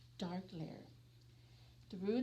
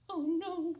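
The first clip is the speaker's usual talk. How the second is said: gasp; 6 semitones higher, 6 dB louder than usual. Acted. Crowd freezes in shock.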